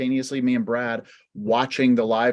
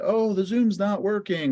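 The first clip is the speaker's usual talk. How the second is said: mock whining; 8 semitones higher than usual. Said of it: "if we just sat there and cried about it".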